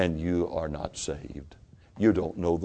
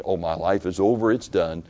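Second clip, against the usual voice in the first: imagined resigned meaning; 2 semitones higher, 6 dB louder than usual. Retold or imitated. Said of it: "he didn't mean".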